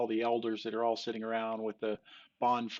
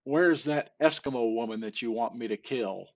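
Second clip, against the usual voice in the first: louder, deadpan professor line; punchline delivery; 6 dB louder than usual. Retold or imitated. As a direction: land the punchline louder, straight-faced. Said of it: "and he looks him square in the eye, and he says".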